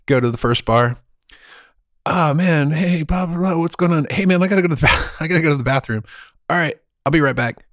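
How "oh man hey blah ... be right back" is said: frat bro. Retold or imitated. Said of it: "this is me pre-ninety-five".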